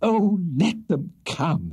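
high, drawn-out frantic wail; hammed-up hysterical lovestruck woman. A narrator's reading. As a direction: cry it out with reckless abandon. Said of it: "exclaimed Missus Bardell frantically".

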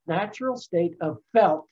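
"felt" set apart with emphasis before a pause; stress on felt. Shown as a demonstration. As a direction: lean on the word "felt", then pause. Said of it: "emphasis on felt".

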